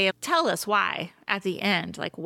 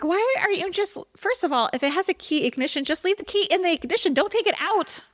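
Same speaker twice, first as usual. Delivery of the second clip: high, fast, incredulous scolding; mock-scolding him for pulling the key out; exasperated rant; 8 semitones higher than usual. Retelling how she scolded the driver, high and exasperated. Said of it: "And I was like".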